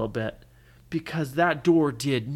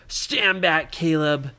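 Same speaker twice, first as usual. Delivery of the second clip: commanding warning; 6 dB louder, slower than usual. Acted. Hero warns friend before forcing door.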